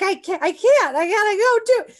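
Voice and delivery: high and loud, rushing over her family; excited insistence. Retold or imitated. To her mom and sister about the Canada job, giddy high excitement. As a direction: she won't be talked out of the job.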